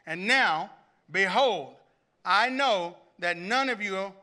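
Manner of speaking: measured, weighty reading with long pauses; lightly dramatized Bible reading; emotional scripture reading. Acted. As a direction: read Paul's farewell as if you feel it. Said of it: "I want you to hear his emotion".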